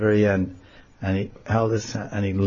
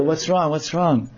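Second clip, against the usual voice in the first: feigned innocence; 6 semitones higher, slower than usual. Acted. Krishna feigns ignorance.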